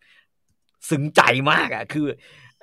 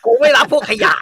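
much higher, much louder scornful yell; furious shout; 11 semitones higher, 11 dB louder than usual. Retold or imitated. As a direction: blow up at the patient, full force. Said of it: "ถ้าเป็นหมอฝ่ายเทพ จะบอกว่า". (หมอตะโกนไล่คนไข้อย่างเดือดดาล เสียงดังและสูงมาก)

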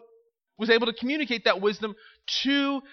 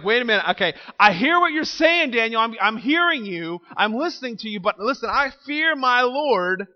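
nervous official; 3 semitones higher than usual. Pretend. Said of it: "He's like".

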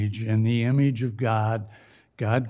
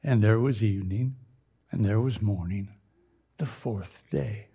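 poet voice. Acted. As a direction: read it lightly like a poet. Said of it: "Hear the poet now".

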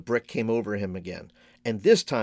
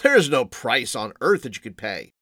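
put-on amused old man; 5 dB louder than usual. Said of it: "actually laughed".

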